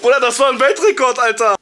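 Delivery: words through laughter; laughing while talking. Real, not acted. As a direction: talk while still laughing. Laughing after crash.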